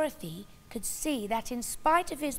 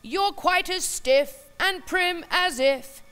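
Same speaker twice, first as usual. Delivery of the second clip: saucy clown; 4 semitones higher, 10 dB louder than usual. Acted. Clown teasing the prim China princess, saucy and loud. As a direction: tease her like a cocky jester. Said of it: "scousely he said".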